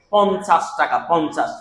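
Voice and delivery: পঞ্চাশ with a plain n before the ch sound; ঞ as dental n. Shown as a demonstration. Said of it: "ইয়টা দন্তান্ন মতো উচ্চারণ হয়". (পঞ্চাশ-এর ঞ দন্ত্য ন-এর মতো উচ্চারণ)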